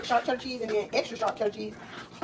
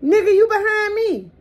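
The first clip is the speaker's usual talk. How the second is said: sharp retort; 9 semitones higher, 9 dB louder than usual. Real, not acted. Snapping at someone behind.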